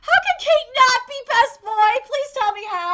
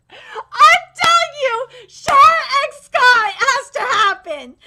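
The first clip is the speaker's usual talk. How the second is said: emphatic declaration; 6 dB louder, slower than usual. Real, not acted. Insisting on ship.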